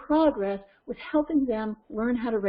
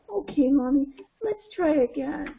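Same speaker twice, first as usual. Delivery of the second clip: put-on cooperative child; 4 semitones higher than usual. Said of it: "the effect that that's supposed to have on Cheetah".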